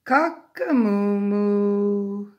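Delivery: long, drawn-out loud mooing crow; shouted cockerel crow. A narrator's reading. Parent reads cockerel's failed crow to child, shouted. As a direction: crow it loud, stretching the moo. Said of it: "he took a deep breath and he shouted".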